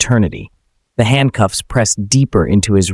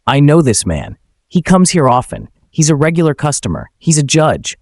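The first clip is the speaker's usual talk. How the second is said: urgent plea; 5 semitones higher than usual. Acted. Manager pleading urgently with officers.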